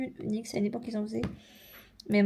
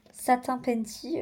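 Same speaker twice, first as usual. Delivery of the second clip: French-accented name; slower than usual. Shown as a demonstration. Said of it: "avec mon accent".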